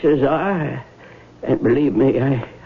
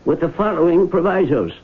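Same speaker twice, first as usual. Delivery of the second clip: formal will reading; 2 semitones higher than usual. Acted. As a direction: read it out like a solemn document. Lawyer reads the will aloud.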